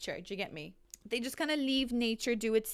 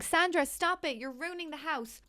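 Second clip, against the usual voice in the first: half-hearted mock scolding, pitched up; mock viewer's scream; 6 semitones higher than usual. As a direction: imitate an exasperated viewer. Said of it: "If you're screaming at me now".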